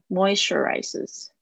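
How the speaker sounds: "moisturizes" with the first syllable MOI accented; "moisturizes", MOI strongest and the rest lighter; stress on MOI. Shown as a demonstration. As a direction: lean on MOI at the start of "moisturizes". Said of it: "重音是在moi上面".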